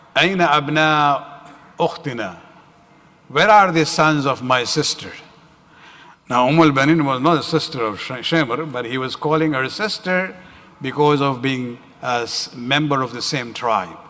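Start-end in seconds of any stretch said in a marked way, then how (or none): none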